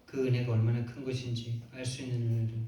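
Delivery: steady monotone prayer voice; public prayer. Real, not acted. Preacher to God closing the sermon, public prayer. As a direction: pray earnestly in even, measured phrases.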